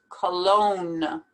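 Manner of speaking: "Cologne" as "kuh-LOAN", no G sound; silent G. Shown as a demonstration. Teacher telling learners to ignore the G, said carefully. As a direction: drop the G in "Cologne", long O into N. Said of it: "Ignore that G completely".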